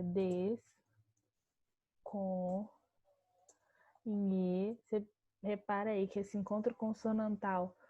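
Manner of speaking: des, com, nhe, si, do, each syllable set apart with pauses; teacher sounding out syllables one by one; split into syllables. Shown as a demonstration. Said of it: "como seria a divisão silábica de desconhecido?".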